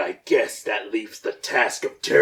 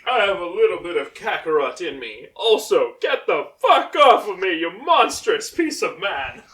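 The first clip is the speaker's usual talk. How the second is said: rising higher into an angry snap; Vegeta voice; 4 semitones higher than usual. Shown as a demonstration. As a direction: build from calm to a furious yell. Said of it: "I wanna read it".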